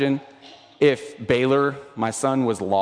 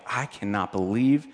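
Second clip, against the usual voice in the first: judgmental churchgoer. Retold or imitated. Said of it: "It's so easy to be like".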